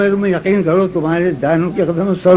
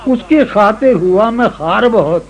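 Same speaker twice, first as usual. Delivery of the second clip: ghazal recitation; 4 semitones higher than usual. Acted. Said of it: "یہ غزل سنو".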